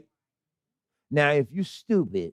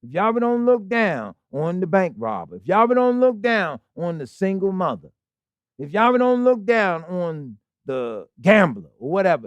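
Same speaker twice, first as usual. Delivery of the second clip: said real slow. Shown as a demonstration. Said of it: "Let me say that real slow".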